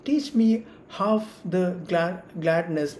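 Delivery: "Teach me half the gladness" slowly, beat by beat, stress on each first syllable; metrical reading in rhythm. Shown as a demonstration. Teacher reading a verse to show trochaic rhythm, measured stressed beats. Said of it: "ഈ rhythm ഉപയോഗിക്കണം".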